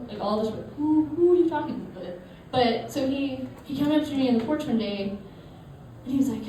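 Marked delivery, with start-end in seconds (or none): 0.8-2.2 put-on high kid's Southie-Long Island accent. Little cousin questioning, Southie-Long Island accent. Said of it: "Southie slash Long Island thing".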